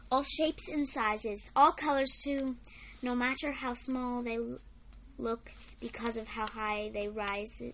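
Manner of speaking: lilting list-like verse recital; poem reading. Acted. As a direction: read the rhyme out in short separate phrases. Reads a poem aloud.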